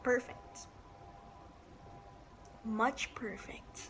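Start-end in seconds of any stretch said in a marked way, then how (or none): 2.6-3.9 slow mock-smug whisper. Real, not acted. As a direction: breathe it out slowly, pleased. Whispered joke after cab.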